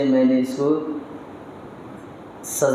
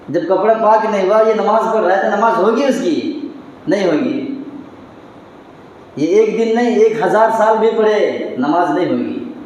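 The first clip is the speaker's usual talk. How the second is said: preaching at full force; 5 semitones higher than usual. Acted. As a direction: hammer the point home to the crowd. Preacher drives home a point.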